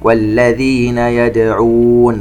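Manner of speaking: slow chanted tajweed recitation with echoing qāf; Quran recitation. Shown as a demonstration. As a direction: recite slowly, bouncing the qāf. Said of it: "نقلقل الدال". (تلاوة مرتلة ببطء مع قلقلة القاف)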